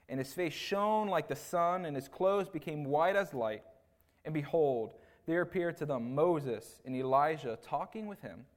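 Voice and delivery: measured, emphatic Bible reading; deliberate public scripture reading. Acted. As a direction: read the verse out firmly, leaning on key words. Reads scripture aloud.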